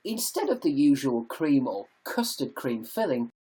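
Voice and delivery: deliberate audiobook-style narration. Shown as a demonstration. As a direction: read it out as a practised voiceover. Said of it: "I need to practice my audiobook voice".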